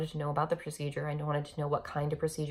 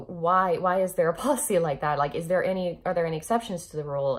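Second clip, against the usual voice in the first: raised indignant questioning; 6 dB louder than usual. Retold or imitated. Demanding why policy excludes husband.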